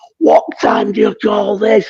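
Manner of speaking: mild, mock-scolding half-shout. Retelling a man screaming across an area at a late arrival: retelling a scream. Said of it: "he's screaming across an area and he's going".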